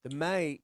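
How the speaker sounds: "mate" with a lengthened A; long Australian A. Shown as a demonstration. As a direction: demonstrate the Aussie vowel in "mate". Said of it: "like the A is longer".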